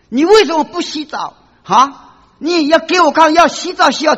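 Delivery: high, loud scolding yell; retold scolding. Doctor yelling at a feverish child's mother, loud scolding. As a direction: bark it out like an angry doctor. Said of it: "开始破口大骂".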